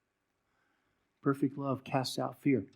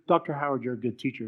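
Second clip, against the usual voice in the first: louder, breezy call of his name; casual greeting; 6 dB louder than usual. Retold or imitated. Fan greeting the preacher after the talk, louder and breezy. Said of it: "When you hear".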